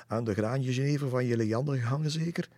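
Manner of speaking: high, loud, quick tease; amused teasing. A narrator's reading. Irma teases Lisse about gin, amused teasing. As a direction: tease with a touch of mirth. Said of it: "proesten het uit".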